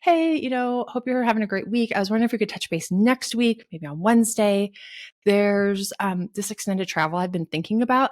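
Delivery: light, brisk friendly email voice; sample email read. Shown as a demonstration. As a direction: read it like a breezy note to the boss. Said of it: "And it can be like".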